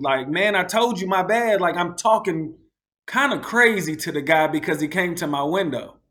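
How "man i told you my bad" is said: with attitude. Retold or imitated. Brushing off the driver he cut off, with attitude. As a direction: toss off the sorry with attitude. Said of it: "with an attitude".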